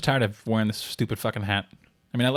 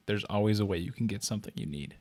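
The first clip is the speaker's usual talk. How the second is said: seductive; 6 dB quieter than usual. Retold or imitated. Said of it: "he licked his lips seductively while saying".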